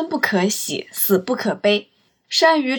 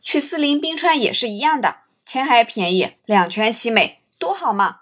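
coaxing salesman. Retold or imitated. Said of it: "和客人说".

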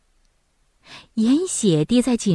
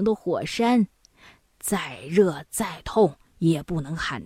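put-on old woman cautioning. Old woman warns eldest son of fire and ice, cautioning. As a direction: caution him gravely, as an old storyteller would.

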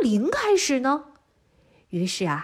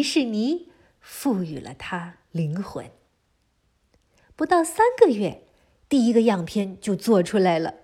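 put-on lively storytelling for little kids; reading to a toddler. A narrator's reading. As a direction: tell it brightly to a small child. Children's story narration throughout.

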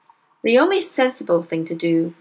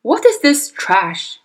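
slow, louder scornful demand; contemptuous father; 5 semitones higher, 5 dB louder, slower than usual. Acted. Father snatching the book from his daughter, scornful. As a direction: sneer at the book as you grab it. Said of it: "he said, snatching the book".

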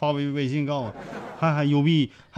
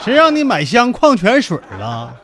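mock scolding; 5 semitones higher, 6 dB louder than usual. Repeats girlfriend's scolding.

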